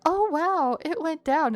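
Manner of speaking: mock patient gushing over a cure; mocking fake relief. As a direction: parody the gullible patient. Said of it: "half expecting me to be like".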